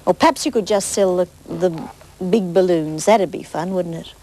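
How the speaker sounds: lively storybook reading; bright picture-book narration; reading to children. Acted. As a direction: read it to the little ones.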